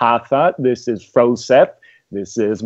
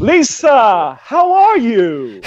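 put-on Southern accent; 10 semitones higher, 4 dB louder, much slower than usual. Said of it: "I'm back to my normal accent".

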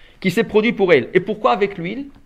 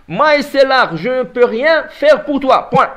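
slow firm refusal; 5 semitones higher, 7 dB louder, slower than usual. Retold or imitated. Prophet refusing the widow.

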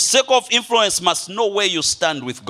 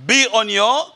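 congregational reading. Shown as a demonstration. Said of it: "you're going to read the first part".

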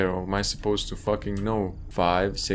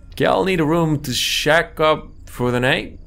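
gruff character voice; 7 semitones higher, 6 dB louder than usual. Acted. Player voicing character in game.

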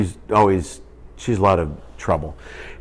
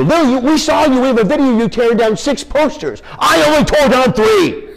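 put-on squeaky kid confession; 5 dB louder than usual.

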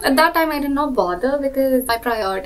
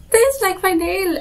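high, loud plea to be understood; exasperated retelling; 8 semitones higher, 4 dB louder, slower than usual. Retold or imitated. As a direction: act out insisting to someone who isn't getting it. Exasperated, showing uncomprehending relative her nail.

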